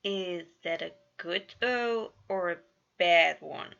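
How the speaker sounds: slow, loud and tense. Acted. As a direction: ask it braced for a bad answer. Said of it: "Virgil asked tensely".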